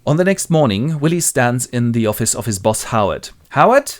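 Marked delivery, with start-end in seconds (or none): 3.5-3.9 high, loud rising query; acted questioning call. Willie stands in his boss's office, seeking attention.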